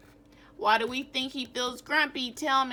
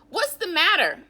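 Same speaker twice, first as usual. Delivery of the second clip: concerned question; 2 semitones lower, 6 dB louder than usual. Acted. Jim asks slumped Norman.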